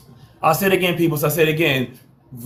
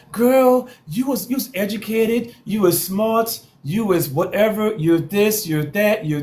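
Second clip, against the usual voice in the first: mock sassy scolding; 4 semitones higher than usual. Mock lecture to a successful woman.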